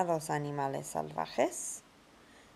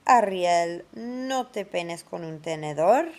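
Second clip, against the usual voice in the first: name called out much louder; 7 dB louder than usual. Acted. Teacher calling Ariel to stop combing with a fork, louder call. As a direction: call the name across the room.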